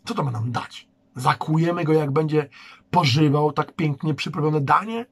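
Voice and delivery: mockingly sweet, sarcastic question; ironic. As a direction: ironize the brother's plan. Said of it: "ironizował".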